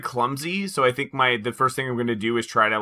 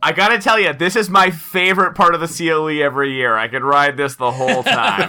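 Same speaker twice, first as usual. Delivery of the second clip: excited; 2 semitones higher, 3 dB louder than usual. Pretend. Enjoying the spinning ride.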